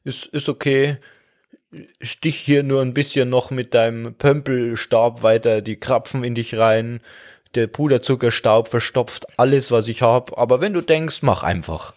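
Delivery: mock-tolerant lung tallying up the damage; passive-aggressive lung. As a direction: pretend to allow it through clenched politeness. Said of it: "Sie sagt".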